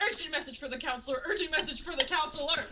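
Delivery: playful urgent cry, breaking into laughter; urgent messenger. Acted. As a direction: call it out like a messenger rushing through. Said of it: "speed through really fast and go".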